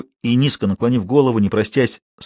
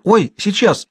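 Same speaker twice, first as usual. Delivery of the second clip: high startled answer; flustered, scared to be caught; frightened reply; 9 semitones higher, slower than usual. A narrator's reading. Girl startled, answers the waiting man fearfully. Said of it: "испуганно отозвалась Манька".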